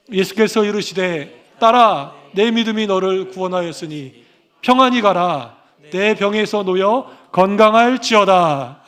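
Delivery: slow solemn verse reading; unhurried reverent Bible recitation; scripture reading. Acted. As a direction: intone the verse, dwelling on the ending. Reads the key verse aloud.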